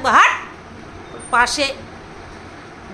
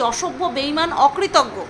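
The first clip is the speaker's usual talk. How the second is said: calm contempt; 3 semitones lower, slower than usual. Real, not acted. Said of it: "এখন কিন্তু আমি শান্ত মাথা".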